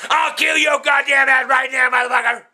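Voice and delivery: angry yelling threats; furious shout. Real, not acted. Old man threatening his family, shouting furiously. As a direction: bark it at him in a rage.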